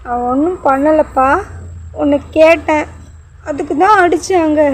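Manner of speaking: put-on child telling his father why he was hit; little boy voice. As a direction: sound like a frightened little boy explaining to dad. Small boy answers his father.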